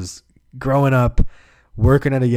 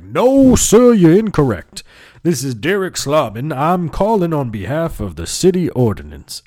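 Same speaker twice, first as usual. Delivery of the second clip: loud, high put-on denial; changed caller voice; 6 semitones higher, 5 dB louder than usual. Caller denying he just called, loud high disguised voice. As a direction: insist as a bogus caller, starting way up high. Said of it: "just changing my voice".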